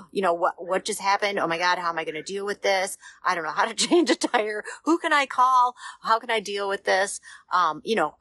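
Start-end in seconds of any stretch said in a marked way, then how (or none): 0.3-7.2 mock panic. Driver stranded with a flat tire, acting out panic. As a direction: play the flustered driver who can't cope. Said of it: "I'm freaking out".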